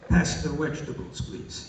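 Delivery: put-on understated Russian accent, V and W swapped; father's Russian accent. Son imitating his father at the table, light Russian accent. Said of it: "that's the way my father spoke".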